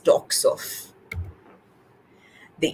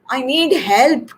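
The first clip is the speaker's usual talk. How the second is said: slow, higher, lightly purred plea; purring cat; 5 semitones higher, 4 dB louder, slower than usual. A narrator's reading. Cat asks Crow for help, purring lightly. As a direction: draw it out like a wheedling cat. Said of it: "Cat purrs".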